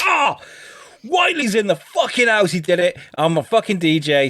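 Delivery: mock triumphant boast, starting high; cocky DJ boast. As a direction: crow like a show-off DJ.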